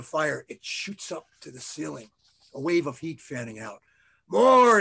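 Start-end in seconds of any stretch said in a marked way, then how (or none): 4.3-4.8 very loud, high, drawn-out cry; yell. A narrator's reading. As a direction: yell for more with full force. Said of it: "he yells".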